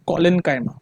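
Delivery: ordinary talk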